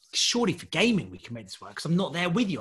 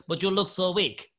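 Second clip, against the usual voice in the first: mock Russian accent, slightly higher; put-on Russian accent; 4 semitones higher than usual. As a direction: imitate a Russian challenger's taunt. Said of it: "this Russian guy comes in".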